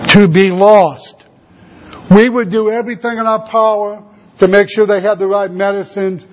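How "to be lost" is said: slow, more forceful and grave; drawn out with firm, solemn weight; emphatic repetition. Real, not acted. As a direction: drive it home, word by word. Repeats the answer for emphasis.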